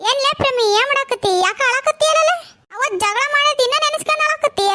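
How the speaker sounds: high-pitched surprised concern; high, pressing questions; concerned questioning. Acted. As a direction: pitch it up, asking a friend why she cries. Finds friend in tears, questions her.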